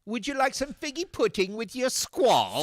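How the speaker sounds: high, loud mock-genteel offer; posh hostess voice. Mock carol host.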